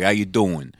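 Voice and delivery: lightly put-on Brooklyn accent; casual mock-Brooklyn greeting; stereotypical Brooklyn accent. Shown as a demonstration. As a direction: toss it off like a Brooklyn local. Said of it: "like, stereotypical".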